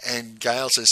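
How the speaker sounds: ordinary talk, nothing marked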